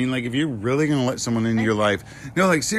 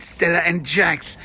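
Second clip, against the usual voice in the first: mock British accent, pitched up; a playful fake British accent; 6 semitones higher than usual. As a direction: sign off the email address in a hammed-up British accent. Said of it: "we end on a British accent".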